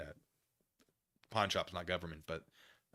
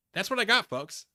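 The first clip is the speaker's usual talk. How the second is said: loud sign-off; 12 semitones higher, 10 dB louder than usual. Real, not acted. Sign-off to viewers.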